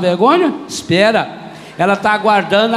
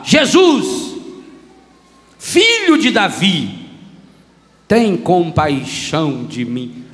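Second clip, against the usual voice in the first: shouted plea; 3 semitones lower, slower than usual. Acted. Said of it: "começou a gritar".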